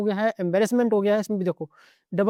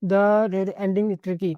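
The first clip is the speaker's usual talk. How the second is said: very slow emphasis; much slower than usual. Shown as a demonstration. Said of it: "ये इसको बोलता है".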